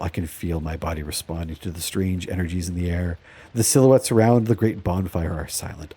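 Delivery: storyteller setting a moonlit ceremony; dramatic story narration. Acted. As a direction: read it like a solemn fantasy tale. Reads game's event text aloud.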